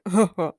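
low acted chuckle; short hearty laugh in character. A narrator's reading. Thor dismissing Superman's warning, laughing. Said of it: "Thor laughed".

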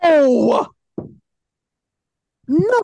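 loud, high outraged no; shouted no. Real, not acted. Co-host shouting down a racist joke, loud and high. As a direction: cut him off with a yell.

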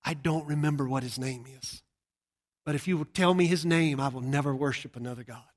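tearful plea. Retold or imitated. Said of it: "She started crying".

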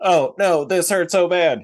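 high, hammy fake pain; bad actor whimper. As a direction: overact the hurt, loud and high. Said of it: "He's, like, a bad actor".

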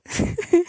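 high, short laugh; burst of laughter. Real, not acted. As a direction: laugh at how silly it was. Laughing at the film scene. (risada alta)

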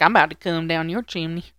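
lightly suggestive Santa quote; a touch of innuendo on a Santa line. Retold or imitated. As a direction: imitate Santa with a hint of innuendo. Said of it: "Why'd you say it like that?".

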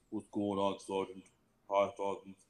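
mild lisping impression; lisping Magulik. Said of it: "kind of a lisp".

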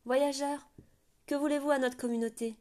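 put-on a little girl calling from above; child's voice. A narrator's reading. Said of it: "Une voix enfantine appela".

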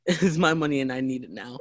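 laughing through a quoted ad line; quoting a commercial laughing. Retold or imitated. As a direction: giggle while reciting the slogan. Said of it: "It's like that one commercial".

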